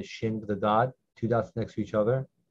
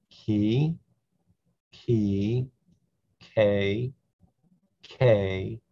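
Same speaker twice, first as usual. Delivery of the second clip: syllables read a bit slower and evenly; a little slower; much slower than usual. Shown as a demonstration. Teacher to Hebrew learners, a little slower. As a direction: ease off and read each syllable carefully. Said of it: "Maybe a little slower".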